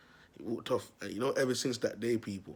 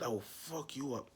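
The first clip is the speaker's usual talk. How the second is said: softer, slow, menacing stepdad; quiet slow threat; 3 semitones higher, 6 dB quieter than usual. Retold or imitated. The stepdad warning the kid, soft, slow and menacing. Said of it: "He said".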